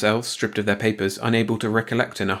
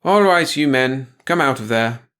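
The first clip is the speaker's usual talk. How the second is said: commanding order; 3 semitones higher, 5 dB louder than usual. Acted. Woman ordering men out.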